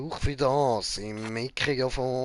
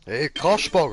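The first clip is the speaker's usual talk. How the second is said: calling out; 2 semitones higher, 7 dB louder than usual. Acted. Calling out to game character.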